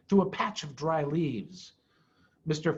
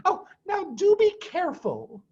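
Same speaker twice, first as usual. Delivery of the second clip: much higher, anxious and pleading; worried Mrs Fox; 12 semitones higher than usual. Acted. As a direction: beg him to take care.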